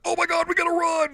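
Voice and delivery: high, loud hammed-up panic; mock panic. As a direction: shriek it like you must flee. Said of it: "They're like".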